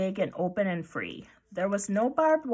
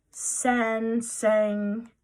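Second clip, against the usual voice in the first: mock calling out; 2 semitones higher, 4 dB louder than usual. A narrator's reading. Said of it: "the girl next to him called out".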